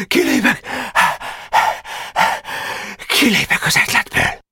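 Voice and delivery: put-on hoarse, high outburst of a sick boy; delirious rasping. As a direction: rasp out a feverish protest. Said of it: "most már hörögve beszélt". (hörögve, lázasan tiltakozva)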